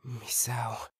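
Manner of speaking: whisper. Acted. Searching alone, calling quietly.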